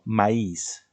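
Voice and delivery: Maíz said as ma-ÍS, falling; Maíz with a light a and weighted i; correct stress. Shown as a demonstration. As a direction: stress the second vowel of Maíz, the i. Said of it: "En la segunda".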